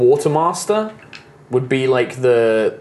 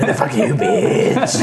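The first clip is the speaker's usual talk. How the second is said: much higher, mock squeal of the insult; squeaky mocking echo; slower than usual. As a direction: parrot the line back in a tiny high voice.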